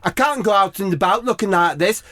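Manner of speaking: high, prissy worried voice; fretting Harry Kane. Acted.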